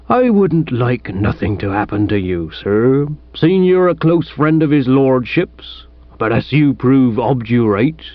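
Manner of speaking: lightly voiced aggrieved village policeman; disgruntled police sergeant. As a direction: grumble like a mildly put-out sergeant.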